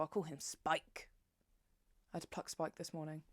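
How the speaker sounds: hushed confession; whispered. Real, not acted. Telling viewers about her chin hair, whispered. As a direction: let it out in a secretive whisper.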